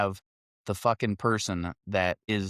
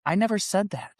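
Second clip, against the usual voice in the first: high, indignant denial; retold denial pitched high; 8 semitones higher than usual. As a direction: snap back high in disbelief.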